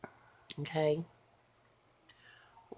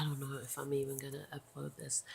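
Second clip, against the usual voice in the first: drowsy unvoiced whisper; 3 semitones lower, 6 dB quieter, faster than usual. Real, not acted. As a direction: mumble it, barely awake. Tired murmur.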